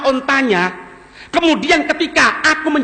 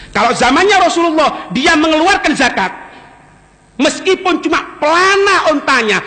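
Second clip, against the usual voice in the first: forceful vow; 4 semitones higher than usual. Acted. Abu Bakar's vow voiced forcefully.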